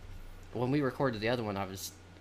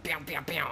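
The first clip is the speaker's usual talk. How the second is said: imitated gunshots; 5 semitones higher than usual. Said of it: "that's the gun sound".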